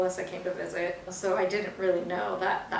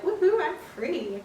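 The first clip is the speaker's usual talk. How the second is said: giddy relief; 9 semitones higher than usual. Retold or imitated. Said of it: "I was like".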